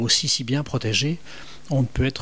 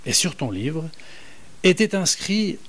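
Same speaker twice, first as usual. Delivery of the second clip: psalm reading; 2 semitones higher than usual. Shown as a demonstration. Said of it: "Je vous en lis quelques extraits".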